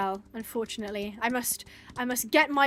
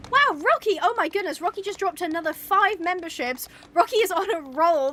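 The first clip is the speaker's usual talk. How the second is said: thrilled, higher-pitched shout-out; excited gratitude; 5 semitones higher, 4 dB louder than usual. Real, not acted. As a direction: react with real amazement to a generous gift. Thanking a viewer for gifted memberships.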